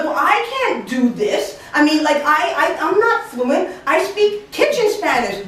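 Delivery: high-pitched, pleading objection; flustered protest. Retold or imitated. Employee tells boss she's not fluent, flustered protest.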